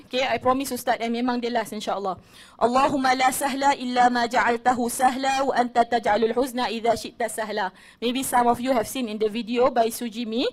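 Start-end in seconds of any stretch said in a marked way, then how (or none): 2.6-7.7 measured prayer recitation; dua recitation. Acted. Teacher reciting a dua to her audience, measured recitation. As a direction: recite it carefully, word by word.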